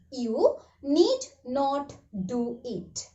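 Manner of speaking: You need not do it said slowly, word by word; slow classroom model sentence; slow, careful repeat. Shown as a demonstration.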